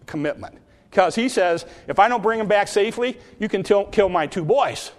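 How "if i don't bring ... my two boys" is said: quick, higher-pitched, offhand promise; casually acted pledge; half-hearted pledge. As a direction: rattle off the vow with little weight. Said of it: "I would say Reuben was half-hearted".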